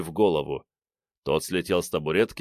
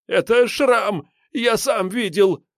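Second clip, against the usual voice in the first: high, slow, frightened cry; frightened blurt; 14 semitones higher, 4 dB louder, slower than usual. A narrator's reading. Scared suspect blurts the name to the investigator. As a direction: blurt it out in fear.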